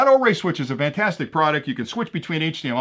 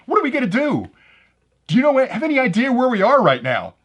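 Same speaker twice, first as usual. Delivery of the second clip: mock panic; 8 semitones higher, 3 dB louder than usual. Stranded hunters panic in joke.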